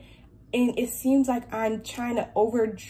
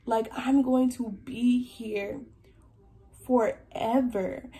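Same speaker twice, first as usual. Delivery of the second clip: close to tears; slower than usual. Real, not acted. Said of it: "oh, I'm about to cry".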